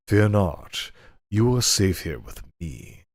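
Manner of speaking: lightly voiced lecherous lord; suggestive master. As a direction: draw it out like a sleazy nobleman. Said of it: "inappropriate voice I can muster".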